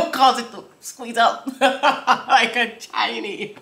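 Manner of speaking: laughing. Real, not acted. Laughing at lyric.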